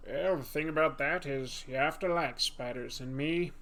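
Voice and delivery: Morgan Freeman impression. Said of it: "Not deep enough".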